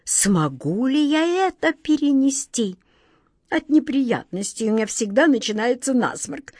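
faint groaning lament; mild mock-tragic whimper of a king; dying moan. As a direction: moan it as if fading away. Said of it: "Замирающим голосом простонал король".

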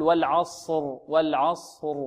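والعصر heavy, lips not rounded; correct sad. Shown as a demonstration. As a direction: say والعصر the right way, lips flat. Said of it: "هكذا نقول". (الصاد مفخمة بشفتين مرتخيتين)

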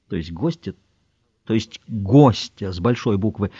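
usual speaking voice

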